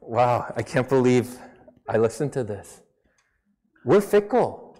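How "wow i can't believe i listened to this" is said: lower, quick, amused self-scorn; retold wow of disbelief, lower and fast; mock disbelief. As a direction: scoff at your old taste. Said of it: "I'm like".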